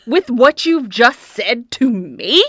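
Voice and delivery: high, slow, loud mock outrage; epically dramatic. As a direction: stretch out each incredulous question. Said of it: "being epically dramatic".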